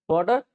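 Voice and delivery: "Water" with a clear final r; Hindi-style "Water", r kept; r sounded. Shown as a demonstration. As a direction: close "Water" on an audible r. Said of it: "It is not, it's water".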